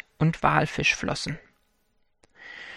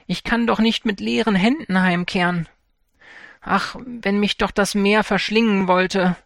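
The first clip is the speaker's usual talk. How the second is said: lamenting; 4 semitones higher than usual. Acted. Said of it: "jammerte er dann".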